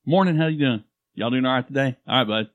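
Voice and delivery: put-on Oklahoma accent. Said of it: "put a little Oklahoma".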